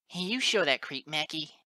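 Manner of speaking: put-on high, loud young cheerleading; cheering. A narrator's reading. Filly urging on the rescuer, high excited cheering. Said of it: "Scootaloo joined her cheers".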